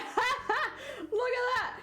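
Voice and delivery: high giggly pointing at it; laughing. Retold or imitated. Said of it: "being like".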